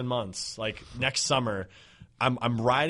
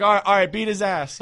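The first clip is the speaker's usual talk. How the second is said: laughing; 8 semitones higher, 8 dB louder than usual. Retold or imitated. Bystander gives in, laughing.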